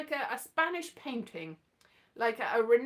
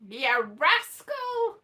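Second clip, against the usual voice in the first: Ya rascal higher and louder, slow; sing-song Ya rascal, higher and slow; a fond scolding Ya rascal, pitched up; higher teasing rascal; 4 semitones higher, 5 dB louder, much slower than usual. Retold or imitated.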